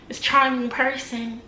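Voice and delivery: slow, sarcastic drawn-out charming; mocking charming person. Shown as a demonstration. Mocking the ex's fake charming act. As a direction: sneer at his fake charm.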